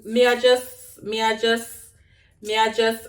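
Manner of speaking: halting Jamaican Patois, restarting. Shown as a demonstration. Vlogger trying patois again for viewers, halting patois accent. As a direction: grope for the next words in patois. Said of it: "I'll talk patois".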